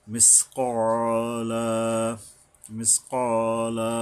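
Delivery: full, rounded q in "মিসকালা", vowel drawn out one alif; thick qaf with madd. Shown as a demonstration. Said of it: "উচ্চারণ করতে হবে মোটা করে". ("মিসকালা"-র ক মোটা করে এক আলিফ টেনে)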